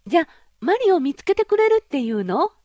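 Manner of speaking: put-on high, loud girlish princess voice, half scornful; spoiled young princess. Princess voiced in fairy tale. (高く大きな声のわがままなお姫様)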